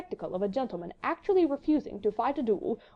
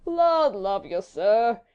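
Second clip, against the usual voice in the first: very slow, louder lazy drawl; good-humoured drawl; 6 dB louder, much slower than usual. A narrator's reading. Yawning Sir Percy dismissing challenger, good-humoured drawl. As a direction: stretch it out with easy good humour. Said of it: "he muttered good-humouredly".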